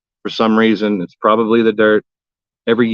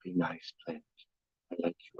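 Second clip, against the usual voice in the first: sweet talking; 4 semitones lower, 22 dB quieter than usual. Pretend. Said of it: "Talking to 'em nicely".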